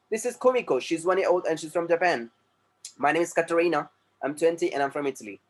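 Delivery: reading sample sentences slowly and clearly; slow textbook reading. Shown as a demonstration. Teacher reading textbook lines slowly to class. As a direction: model each sentence slowly for students.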